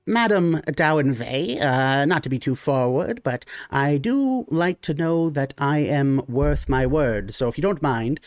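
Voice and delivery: a polite gnome choosing his words; gnome character voice. Acted.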